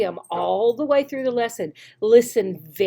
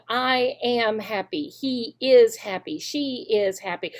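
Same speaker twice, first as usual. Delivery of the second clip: slow drill sentences; slower than usual. Shown as a demonstration. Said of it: "they're practicing".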